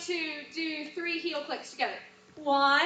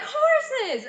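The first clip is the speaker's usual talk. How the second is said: imitated interruption; 7 semitones higher, 4 dB louder than usual. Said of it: "Brooke's gonna interrupt you".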